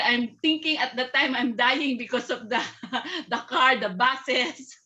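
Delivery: words broken by laughter; laughing. Real, not acted. Caregiver recalling fear of the traffic, laughing. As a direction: tell it through real laughs.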